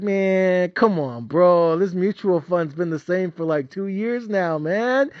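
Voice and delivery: building from grumbling to shrieking high yells; hammed-up tantrum at his mutual fund; escalating rant at fund. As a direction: scream at the mutual fund like a lazy worker. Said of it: "I'm all like".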